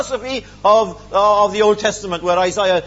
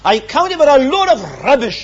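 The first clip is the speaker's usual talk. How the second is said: loud preaching scorn; 6 dB louder than usual. Acted. Paul's scorn voiced.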